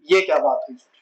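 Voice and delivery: a hint of a baffled student's complaint; puzzled student. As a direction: play a confused student asking the teacher. Teacher voices puzzled student.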